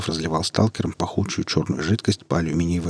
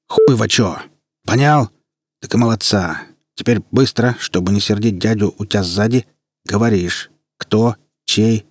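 russian street thug. Acted. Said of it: "голоса не повысил".

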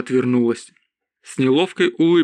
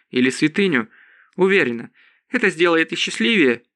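slightly higher voice for a resolute heroine; a hint of a determined woman, pitched up; lightly voiced Priscilla, resolute; 4 semitones higher than usual. Priscilla vows to comfort fallen soldiers' families, lightly voiced and resolute. Priscilla's speech in narrated dialogue.

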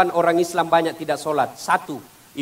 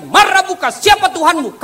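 high, loud interrogating angel; stern angel asking; 12 semitones higher, 8 dB louder than usual. Acted. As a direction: boom the grave question down from above. Angel questions again. (malaikat bertanya dengan suara tinggi dan keras)

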